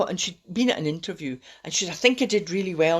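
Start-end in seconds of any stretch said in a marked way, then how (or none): 1.9-3.0 excited. Retold or imitated. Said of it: "she was getting really excited".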